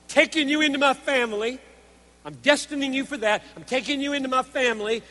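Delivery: animated sermon exposition; emphatic preaching. Real, not acted. Preacher voicing God taking you into his family, emphatic preaching. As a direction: press the promise on the congregation.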